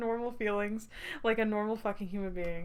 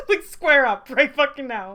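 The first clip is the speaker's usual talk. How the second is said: loud slow mock threat; mock fight challenge; 4 semitones higher, 10 dB louder, slower than usual. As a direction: dare him to fight, half-joking.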